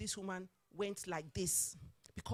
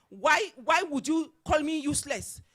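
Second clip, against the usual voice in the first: high, loud mock demand; imitating a wounded, indignant woman; retold upset protest; 6 semitones higher, 8 dB louder than usual. Tearful executive talking back to the chairman, protesting. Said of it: "Then you burst into tears".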